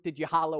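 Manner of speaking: "holla" said as hah-lo instead of "holler"; slip of the tongue. Real, not acted. Pastor listing cheers, accidentally says "holla". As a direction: say "holla" with an o ending, not -er. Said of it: "holla came out instead of holler".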